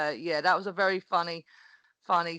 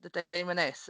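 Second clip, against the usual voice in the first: stunned echo; 6 dB quieter than usual. Retold or imitated. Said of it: "And I was like".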